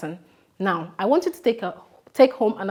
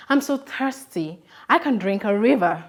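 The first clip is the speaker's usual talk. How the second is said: acted thirst. Shown as a demonstration. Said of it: "I have said".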